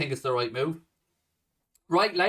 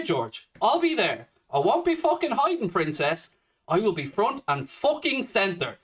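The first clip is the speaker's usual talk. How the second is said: heated, defiant challenge; angry warning; 3 semitones higher than usual. Real, not acted. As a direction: warn your critics you won't back down. Warning online critics he will show up.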